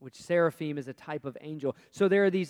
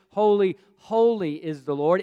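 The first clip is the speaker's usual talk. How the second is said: double holy; 8 dB louder than usual. Shown as a demonstration. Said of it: "repeated three times is to give emphasis".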